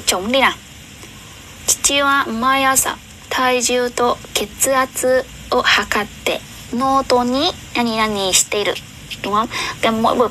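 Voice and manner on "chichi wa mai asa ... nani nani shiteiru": reading the Japanese sentence slowly, syllable by syllable. Shown as a demonstration. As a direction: read it out slowly and clearly like a teacher. Reads the Japanese exam sentence. (cô giáo đọc chậm rãi câu tiếng Nhật cho học viên)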